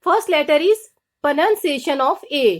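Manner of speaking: very slow, drawn-out heading; slow announcement. Shown as a demonstration. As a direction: spell out the title slowly, like a teacher. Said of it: "announcing the next letter".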